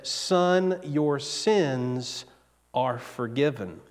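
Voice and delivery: Jesus gently forgiving the man, soft and tender. Acted. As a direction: say it like a quiet blessing. Quoting Jesus again, softly.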